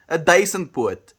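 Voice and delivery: duisendpoot, said with delight; Afrikaans pronunciation. Shown as a demonstration. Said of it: "Oh yes".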